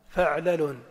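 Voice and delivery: فعلل with a short a either side of a closed 'ayn; pattern demo. Shown as a demonstration. Teacher repeats the first pattern for students, measured. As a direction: say فعلل as fa'-la-lun. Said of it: "وبسكون العين بينهما".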